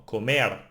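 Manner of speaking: "comer" stressed on MER; last-syllable stress. Shown as a demonstration. Teacher applying the rule to a verb, "comer" stressed on MER. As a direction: land the weight on the end of "comer". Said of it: "emphasize now the last one".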